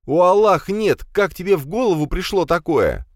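loud, high horrified cry. Acted. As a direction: cry out in horror. Horrified at brother's deed.

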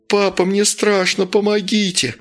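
high, terrified cry for help; frightened child screaming. A narrator's reading. Scared boy crying out to his father, high and panicked. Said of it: "кричал мальчик".

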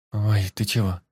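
playful fake surprise; mock surprise. A narrator's reading. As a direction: act surprised, but inviting. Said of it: "наигранное удивление".

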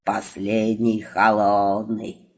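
deep, slow, contented carpet voice; a low, pleased voice for the old carpet; satisfied flying carpet. A narrator's reading. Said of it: "удовлетворённо отозвался Ковёр".

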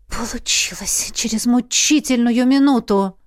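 ordinary delivery

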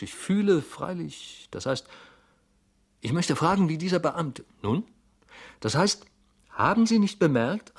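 high, halting, urgent questioning; anxious clerk, voice pitched far up; agitated Goljetkin, probing. A narrator's reading. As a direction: press nervously for an answer. Flustered clerk probes anxiously.

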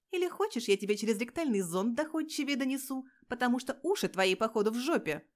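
loud, snarling menace from a tiny bully; a loud jeering threat; menacing threat. Acted. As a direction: lean in and threaten him hard. Girl threatens intern during scuffle.

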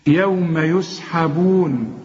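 يوم يسحبون slow, every letter light; thin recitation. Shown as a demonstration. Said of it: "شوف، يوم".

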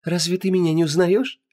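high, sweet, teasing voice; teasing goddess. Acted. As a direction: tease her gently.

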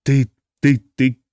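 stammering hoarse rasp; hoarse stammer, lost for words; incoherent croak. A narrator's reading. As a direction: choke the words out. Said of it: "несвязно прохрипел".

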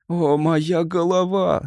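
slow, mild moaning; mild groan. Acted. The stranger moans about his head in pain. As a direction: moan about the aching head. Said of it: "стонал он".

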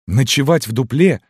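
high, incredulous woman's question; canteen woman chiming in. A narrator's reading. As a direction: echo it in high-pitched disbelief. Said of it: "подхватила маркетантка". (маркитантка, высоко и изумлённо)

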